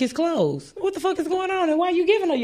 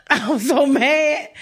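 laughing; slower than usual. Real, not acted.

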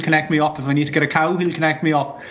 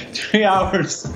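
laughing; 3 semitones higher than usual. Acted. Laughing at his own pub habit.

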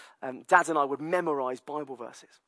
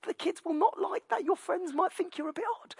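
much higher, fussing parent voice; high mock worry; 4 dB quieter than usual. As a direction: fret at him in a high voice. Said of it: "And we're like".

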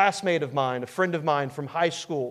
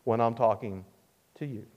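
scolding mother; 3 semitones higher, 5 dB louder than usual. Retold or imitated. Mother to teenager who turned away, stern scolding. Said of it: "my mother would say".

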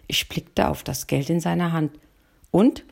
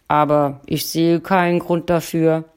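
grumpy husband; 4 dB louder than usual. Acted. Husband's grumbling reply continues.

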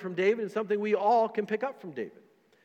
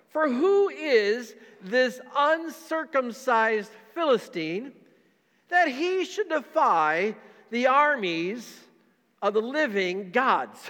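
David's defiant challenge; 4 semitones higher, much slower than usual. Acted. Pastor reading David's challenge to the Philistine, slow and defiant. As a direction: lay out each word like a young fighter's dare.

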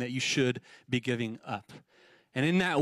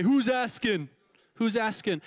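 mob boss; 3 semitones higher than usual. Shown as a demonstration. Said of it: "Harness your inner mob boss".

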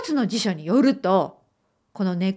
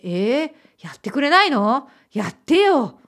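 whiny complaint; 3 semitones higher, 4 dB louder than usual. Retold or imitated. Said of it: "ちょっと声のトーンが変わって".

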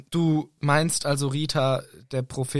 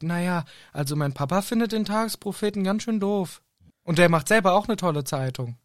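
verträumte Luna; 6 semitones higher than usual. Retold or imitated. Luna zitiert, höher.

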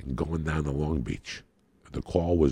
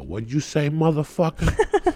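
menacing challenge; 11 semitones higher, 5 dB louder, slower than usual. Retold or imitated. Confronting the director at 2am.

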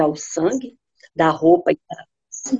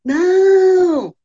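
much higher whispered no; hushed no; 11 semitones higher, 5 dB louder than usual. Acted. Sisters answering from the tower in a high whispered no. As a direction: breathe the word out. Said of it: "elas gritavam assim".

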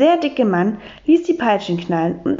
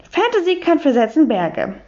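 a hint of an English lady speaking broken German; higher, English-accented, prim; light English accent; 5 semitones higher than usual. Miss Brightwhistle, English lady.

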